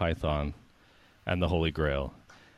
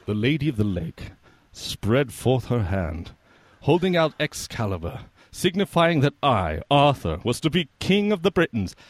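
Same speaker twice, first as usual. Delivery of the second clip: lightly voiced king; 3 semitones higher than usual. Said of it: "thank you for that performance".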